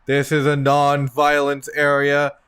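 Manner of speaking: measured, even announcement with little pitch movement; lightly voiced warning announcer. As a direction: recite it like a standard warning. Game master voices an automated warning.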